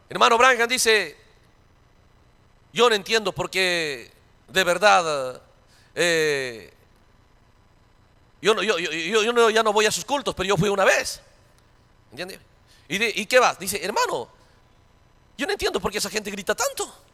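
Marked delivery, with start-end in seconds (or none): 2.7-11.2 imitated hesitant, bewildered visitor; hesitant complaint. Voices a reluctant, puzzled churchgoer. 13.8-17.0 soft, puzzled imitated churchgoer; hushed voice of a bewildered visitor; meek complaint. Imitates visitor bothered by shouting.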